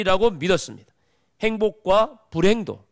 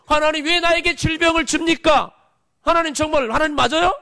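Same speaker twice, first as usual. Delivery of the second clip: sick believer's protest; 7 semitones higher, 3 dB louder than usual. Retold or imitated. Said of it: "질병을 줄 수도 있어요".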